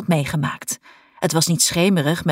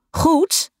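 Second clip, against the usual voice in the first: Goed? called out louder with a rise; 10 semitones higher than usual. A narrator's reading. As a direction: call Goed? out harder across the pool. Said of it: "Harder nu". (juf roept Goed? harder de donkere zaal in)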